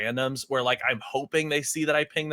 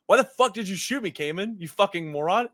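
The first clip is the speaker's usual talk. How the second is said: retold angry yell; 6 semitones higher than usual. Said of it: "I said".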